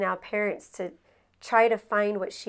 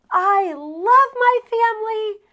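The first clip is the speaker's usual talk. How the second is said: daughter's voice; 12 semitones higher, 11 dB louder than usual. Retold or imitated. Young daughter telling her arguing parents she loves them, high earnest child voice. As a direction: play the kid laying down the law.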